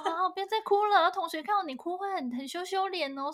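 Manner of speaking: coaxing mother. Retold or imitated. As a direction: coax a crying child to stop. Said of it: "每一天都安慰我说".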